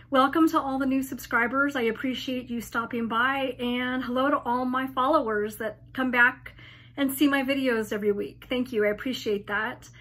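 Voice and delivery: hoarse, tired post-op voice; weak laryngitis voice after surgery; post-op weakness. Real, not acted. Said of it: "I have to apologize for my voice".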